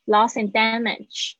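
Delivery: "Loss and damage" said with one shared d; slow model of linked "Loss and damage"; linked pronunciation. Shown as a demonstration. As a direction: merge the d's in "and damage". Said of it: "只要讲一个的就好了".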